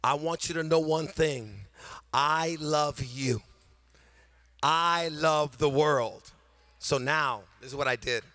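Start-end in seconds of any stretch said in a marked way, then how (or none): 0.0-6.3 voicing God. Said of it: "what God is saying".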